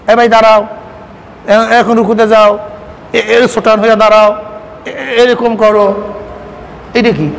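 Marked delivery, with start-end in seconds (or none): 0.1-6.0 imitating a prayer teacher. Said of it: "নামাজ শিক্ষা দেওয়ার জন্য বিভিন্ন কৌশল".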